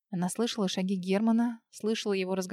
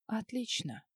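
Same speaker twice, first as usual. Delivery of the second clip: cold smirk; 10 dB quieter, slower than usual. A narrator's reading. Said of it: "Холодно усмехнувшись".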